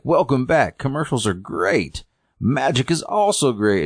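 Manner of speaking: high, lilting mock TV presenter; show host. Host returns after commercials, high peppy patter. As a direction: welcome viewers back with put-on pep.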